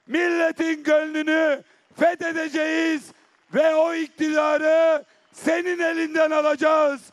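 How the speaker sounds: fiery vow from the podium; rally speech. Acted. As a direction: rouse the crowd with a vow. Closing vow to the crowd.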